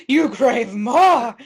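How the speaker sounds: loud, very slow, drawn-out words; hammed-up craving. Narrating towel greed to co-host, loud drawn-out melodrama. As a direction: stretch it out with theatrical force.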